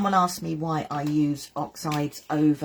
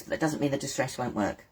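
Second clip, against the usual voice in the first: slurping; 2 semitones lower, 4 dB quieter than usual. Real, not acted. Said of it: "Sorry, I'm just slurping".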